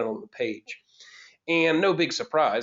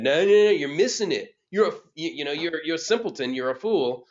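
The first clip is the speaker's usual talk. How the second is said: higher, dismissive know-it-all put-down; acted arrogant scorn, pitched up; 4 semitones higher, 4 dB louder than usual. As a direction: cut them off as a cocky younger self, starting loud. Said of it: "sort of more arrogant".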